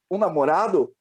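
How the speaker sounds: a hint of the mother's incredulous question; mãe interrogando. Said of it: "E ela falou assim". (leve imitação da mãe, mais aguda)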